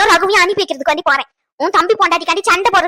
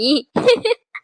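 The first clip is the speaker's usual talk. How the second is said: brief laugh, close to a sob. Acted. Daughter finds her mother's anger funny, laughing. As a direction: laugh at the other's fussing. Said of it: "உன்னை பார்த்து எனக்கு சிரிப்பு சிரிப்பா வருது".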